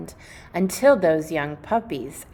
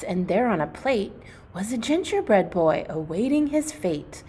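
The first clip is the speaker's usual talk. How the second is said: put-on gentle rhyming read-aloud for kids; storybook read-aloud. Teacher reading a Christmas story to the class in a gentle storybook voice. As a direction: read it like a bedtime picture book.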